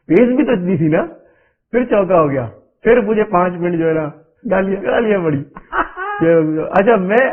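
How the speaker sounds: telling it through laughter; laughing while telling. Real, not acted. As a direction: laugh through the memory of the abuse. Laughing while recalling abuse.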